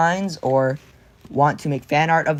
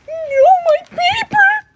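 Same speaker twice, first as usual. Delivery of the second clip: mock wail; 8 dB louder than usual. Whining that someone snatched the paper, cartoon wail.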